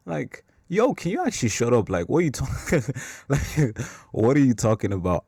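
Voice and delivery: high, loud exasperated outburst; can you actually shut up, rising loud and high. Retold or imitated. Annoyed at a churchgoer's cliché, high exasperated outburst.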